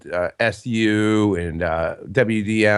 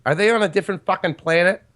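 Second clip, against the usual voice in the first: incredulous rant; 7 semitones higher than usual. Real, not acted. Ranting about Illuminati.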